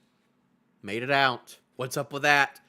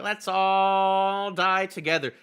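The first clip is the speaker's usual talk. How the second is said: mock group declaration; 3 semitones higher, slower than usual. Acted quote of the falling characters.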